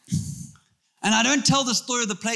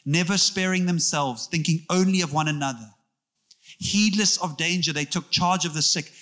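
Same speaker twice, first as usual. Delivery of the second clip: reading aloud. Shown as a demonstration. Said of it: "Let me read to you his account".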